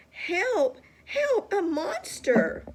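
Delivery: high, loud, panicked calls; frantic cry for help. A narrator's reading. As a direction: scream for help, rising in panic. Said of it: "shouted Baby".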